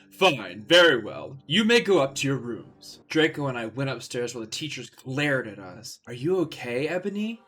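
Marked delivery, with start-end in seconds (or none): 0.1-3.0 grudging Snape. Acted. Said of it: "Professor Snape said". 6.1-7.4 gently asked. Acted. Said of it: "Draco asked me gently".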